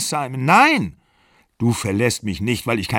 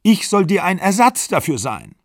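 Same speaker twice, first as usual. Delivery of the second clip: higher and louder, near crying; shrill tearful outburst; 6 semitones higher, 4 dB louder than usual. A narrator's reading. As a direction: she hurls her hurt at him. Pegin cries out in quarrel.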